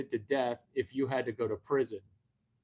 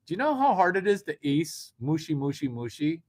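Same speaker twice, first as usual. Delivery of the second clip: mock Chinese; 5 dB louder than usual. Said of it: "a Chinese guy saying".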